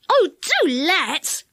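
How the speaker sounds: slow, pleading and eager; eager plea. A narrator's reading. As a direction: beg to go along. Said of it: "cried Dick".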